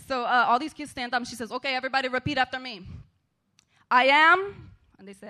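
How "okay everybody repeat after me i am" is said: megaphone call. Retold or imitated. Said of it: "she gets her megaphone out".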